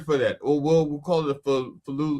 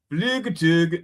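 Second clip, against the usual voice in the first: put-on rough stab at a Scottish accent; attempted Scottish accent; 3 dB louder, slower than usual. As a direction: break into a mock Scottish spiritual. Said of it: "an old Scottish spiritual".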